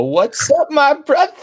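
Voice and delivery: high, drawn-out mock holler; goofy high-pitched greeting, stretched at the end; hammed-up greeting. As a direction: call it out like an over-the-top bro. Acting out greeting someone excitedly.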